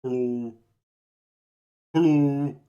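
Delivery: low, drawn-out deep hello. Shown as a demonstration. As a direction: drop into your deepest hello. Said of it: "'Cause I can do deep".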